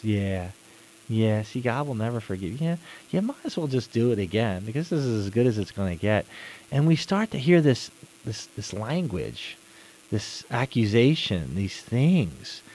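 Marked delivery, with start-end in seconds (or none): 0.0-6.2 devil's accusing voice. Retold or imitated. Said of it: "want us to talk like this".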